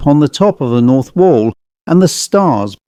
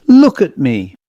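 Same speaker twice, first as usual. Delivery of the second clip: pleading; 2 semitones higher than usual. Acted. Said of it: "he pleaded".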